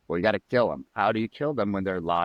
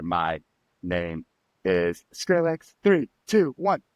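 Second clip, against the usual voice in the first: arena announcer countdown; 3 semitones lower, much slower than usual. Retold or imitated. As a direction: boom it out like a stadium intro, counting down. A DJ's show countdown announcement.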